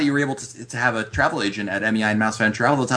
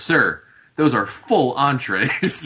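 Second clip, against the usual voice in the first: slow, drawn-out imitation of a waiter; retold waiter; 2 semitones higher, much slower than usual. Host retelling a waiter's reply to his big order, slow waiter impression. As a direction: stretch the words like a mildly appalled waiter. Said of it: "and the waiter goes".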